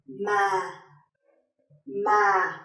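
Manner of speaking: "ma" low and sinking gently; low falling tone. Shown as a demonstration. Teacher giving an example of thanh huyền, low falling. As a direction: start "ma" low and let it drop. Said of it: "low falling tone".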